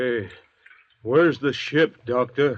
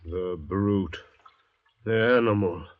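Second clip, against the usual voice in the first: contemptuous outburst; 3 semitones higher than usual. Acted. Convict insulting the native.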